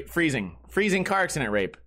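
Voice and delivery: ordinary delivery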